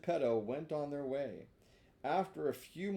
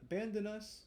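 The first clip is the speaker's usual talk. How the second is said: cat echoing; 7 semitones higher than usual. Acted. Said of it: "said the cat".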